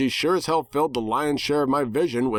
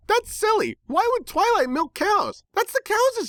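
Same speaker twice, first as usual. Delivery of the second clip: silly pony voice. Acted. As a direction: explain it like a ditzy cartoon pony. Pinkie Pie replies in character.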